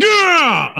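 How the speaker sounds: very high-pitched imitated cheer; mock team cheer. Host retelling the locker room's answer, mock cheering. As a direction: mimic a whole team whooping back.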